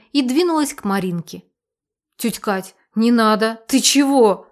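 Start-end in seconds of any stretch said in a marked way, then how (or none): 2.2-4.5 alarmed yell. Acted. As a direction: yell to stop her, panicked. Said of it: "завопила я".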